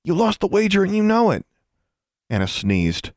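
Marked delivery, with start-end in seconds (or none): 0.0-1.4 gloating. A narrator's reading. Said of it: "He was almost chortling".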